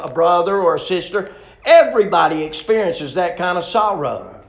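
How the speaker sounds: loud, punched sermon delivery; emphatic preaching. Real, not acted. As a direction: preach it out to the congregation, loudly. Preaches with force.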